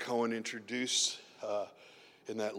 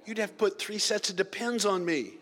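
higher, laughing punchline; 7 semitones higher, 4 dB louder than usual. Real, not acted. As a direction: laugh through the joke.

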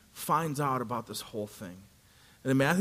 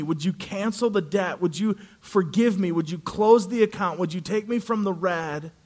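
begging. Acted. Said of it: "he begs the king".

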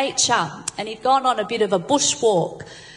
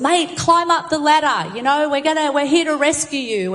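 calling out; 4 semitones higher than usual. Acted. Helicopter patrol calling down.

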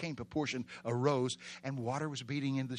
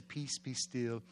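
soft, slow quoted words; understated gentle command; 3 semitones lower, 8 dB quieter, slower than usual. Acted. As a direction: say it softly and slowly, without force. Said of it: "he didn't say".

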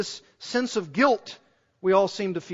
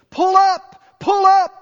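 high, loud mechanical alarm shout; shrill computer voice yelling pull up; shrill warning alarm; 12 semitones higher, 10 dB louder, slower than usual. Retold or imitated. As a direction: bark it like a cockpit warning system. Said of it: "computer-synthesized voice from the plane's automatic warning system".

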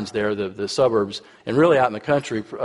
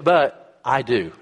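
warm, slow reassurance; much slower than usual. Retold or imitated. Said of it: "And she said".

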